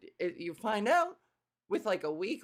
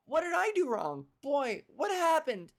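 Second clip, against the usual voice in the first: Nico; 6 semitones higher than usual. Retold or imitated. Voices Nico upset after failed party.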